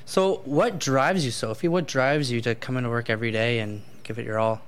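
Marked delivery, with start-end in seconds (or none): none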